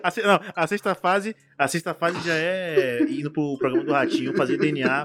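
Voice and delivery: after laughing hard. Real, not acted. Cracking up over the bit.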